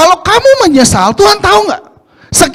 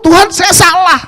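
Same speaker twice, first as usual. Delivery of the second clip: tearful confession; 4 semitones higher than usual. Acted. Preacher acting out a tearful confession to God, crying. Confessing sin in acted prayer.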